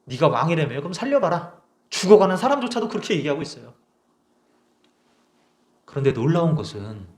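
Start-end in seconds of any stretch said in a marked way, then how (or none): 0.0-1.6 mild mocking. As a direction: lightly sneer 네가 왕이라며. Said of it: "비웃는 거죠". (네가에 힘을 준 가벼운 비웃음)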